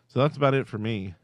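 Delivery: winded after a bike ride; out of breath. Real, not acted. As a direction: talk while catching your breath. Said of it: "I feel like I'm out of breath again".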